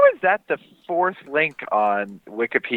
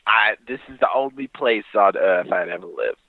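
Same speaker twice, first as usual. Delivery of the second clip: put-on Staten Island accent. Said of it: "There's your voice".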